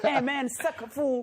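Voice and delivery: mock American tough guy, slow; hamming up an American drawl; American accent.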